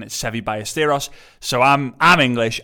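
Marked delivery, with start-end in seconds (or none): 0.2-1.1 Ballesteros said Spanish-style, with a y for the double L; Spanish accent. Shown as a demonstration. English podcaster showing how Spanish say it, Spanish accent. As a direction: say Ballesteros as "bye-a-steros", lightly Spanish. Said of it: "if you say it in a Spanish accent".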